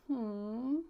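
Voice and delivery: grumpy, drawn-out "hmm"; mock glum hum with a pout; frowning hum. Shown as a demonstration. Teacher showing children a frown like the fish, glum hum. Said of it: "show me a frown like him".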